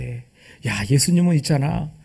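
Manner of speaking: mock griping behind the master's back; acted grumbling. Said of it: "아마 뒷담화도 많이 했을 것 같아". (답답한 듯 투덜대는 뒷담화 흉내)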